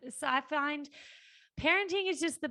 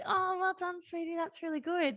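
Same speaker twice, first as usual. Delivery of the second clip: forced smile; 7 semitones higher than usual. Retold or imitated. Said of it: "forced smile".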